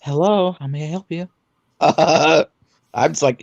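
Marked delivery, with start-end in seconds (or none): 0.0-1.3 lightly mocked phone greeting; a hint of mocked customer-service politeness; polite phone-answering voice. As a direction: imitate an overly proper phone answerer. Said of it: "that irritates me. I hate people that answer the phone and like".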